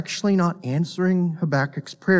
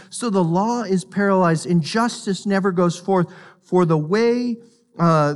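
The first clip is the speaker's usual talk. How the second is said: raised, pleading prophet's complaint; Habakkuk's lament; 3 semitones higher than usual. Acted. Preacher voicing Habakkuk's complaint, raised and pleading. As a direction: read it as the prophet crying out to God.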